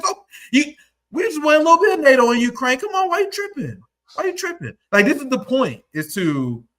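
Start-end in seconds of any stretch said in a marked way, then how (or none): 0.0-4.8 high, mocking whine, fast at first; a hammed-up pleading voice, higher; mock whiny plea. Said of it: "then Trump turned around and said".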